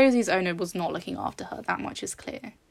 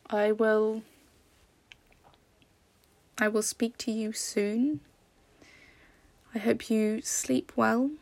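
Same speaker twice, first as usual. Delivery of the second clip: pillow talk; slower than usual. Real, not acted. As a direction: say goodnight slowly and tenderly. Bedtime goodbye to listener.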